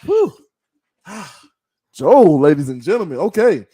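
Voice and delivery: usual speaking voice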